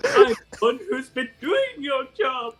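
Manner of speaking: quoting the line while laughing; laughing repeat. Retold or imitated. Players replaying the failed retort, laughing through it. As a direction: replay it, cracking up. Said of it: "Get your act together".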